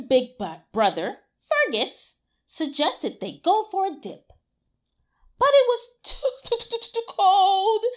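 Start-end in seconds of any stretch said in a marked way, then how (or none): 5.4-7.8 laughing, higher "too, too, too" stretched; higher, laughing repeats. Shown as a demonstration. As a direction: stretch each "too" playfully. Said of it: "reading with emphasis".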